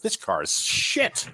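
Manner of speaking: impatient Austrian German, voiced up high and slow; impatient Austrian German accent. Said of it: "the impatient Austrian slash German".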